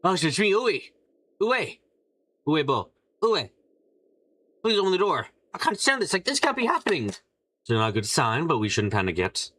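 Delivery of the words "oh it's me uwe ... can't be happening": pitched-up, frantic pleading; a scared guest begging through the door, voice climbing high; panicked guest voice. Acted. Guest begging a friend to open the door, high and panicked.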